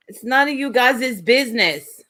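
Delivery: badly attempted Spanish accent. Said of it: "I've done went into a Spanish accent".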